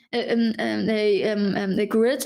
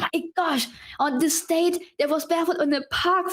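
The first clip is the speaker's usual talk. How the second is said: dismayed realization; 4 semitones higher than usual. Retold or imitated. Acting out forgetting a release date.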